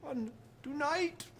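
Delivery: loud, slow drawn-out promo; promo announcer. Acted. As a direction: hype up tonight's show. Hammed-up promo outro.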